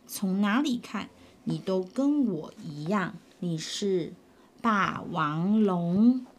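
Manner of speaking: a hint of a low, insistent dinosaur; 霸王龙低沉地说; low T-rex voice.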